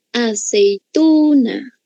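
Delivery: "Aceituna" very slowly, a-cei-TUUU-na; stress on penultimate syllable. Shown as a demonstration. Teacher showing the stressed syllable, "Aceituna" drawn out on TU. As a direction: swell and hold TU in "Aceituna". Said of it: "penúltima sílaba".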